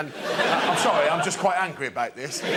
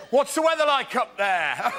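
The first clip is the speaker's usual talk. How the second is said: local joker; 5 semitones higher than usual. Retold or imitated. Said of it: "Another joke might be".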